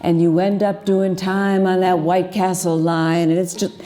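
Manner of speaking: lively spoken-word storytelling; poetry performance. Acted. Poet to a cafe audience about a night drive, spoken-word delivery. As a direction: tell the poem as a rolling late-night tale.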